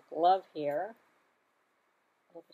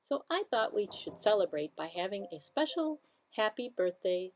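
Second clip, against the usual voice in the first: put-on overbright kids party host; 3 semitones higher than usual. Children's librarian greeting.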